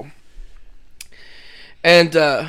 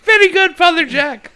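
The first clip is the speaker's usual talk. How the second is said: mock praise; 11 semitones higher, 5 dB louder than usual. Ted praising Jack, voiced.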